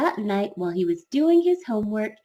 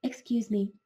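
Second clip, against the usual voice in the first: quiet excuse me; 5 dB quieter than usual. Acted. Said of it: "came out quietly".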